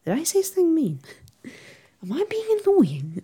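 whispered worried self-questions; hushed fretting with a jump up in pitch; anxious whisper. Retold or imitated. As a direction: breathe it out nervously, half to yourself. Anxious inner thoughts voiced.

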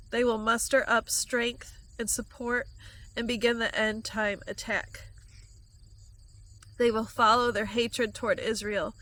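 steady, solemn prophecy; end-times prophecy read aloud; prophetic proclamation. Acted. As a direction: declare the coming war gravely. Delivers a prophecy.

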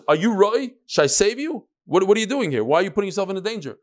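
a hint of a stern questioning voice; voicing God. God to the reckless person, a lightly voiced chiding. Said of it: "HaKadosh Baruch Hu says".

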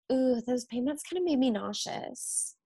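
a hint of a fussy patient; lightly voiced whiny patient. Nurse lightly mimicking a patient's complaint.

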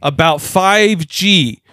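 lightly voiced cheerful handler talking down; a hint of a patronizing caregiver; chirpy handler. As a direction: play the condescending caretaker, upbeat. Mock teacher handler voice.

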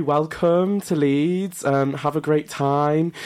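slow, deliberate greeting; half-hearted welcome. Pretend. Co-host role-plays greeting an international student, half-hearted welcome. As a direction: attempt a welcoming speech, drawn out. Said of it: "I'd say".

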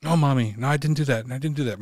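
imitated kid's repeated denial; pleading child. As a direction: lightly play a child protesting innocence. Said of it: "it's me as a child".

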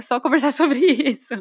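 laughing through the question; giggling as she finishes. Real, not acted. Host laughing while inviting guests to talk.

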